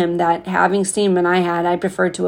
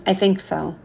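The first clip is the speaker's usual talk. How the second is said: quieter, falling I think so; soft repeat; 4 dB quieter than usual. Acted. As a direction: say it again gently, settling it.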